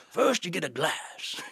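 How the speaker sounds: a light impression of an old Southern gent; old Southern senator. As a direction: lecture on the mint julep like a fussy old senator. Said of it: "He goes".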